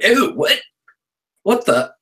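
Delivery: high, shocked squeal of disbelief; excited disbelief. Retold or imitated. Hearing Benedict Cumberbatch will read it, a high excited yelp. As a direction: yelp it like you can't believe the news. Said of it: "so I got excited".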